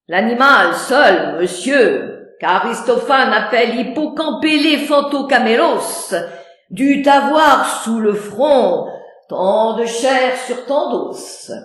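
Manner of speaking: loud, lecturing know-it-all; pedantic. Acted. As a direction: show off the long word. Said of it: "Pédant". (pédant)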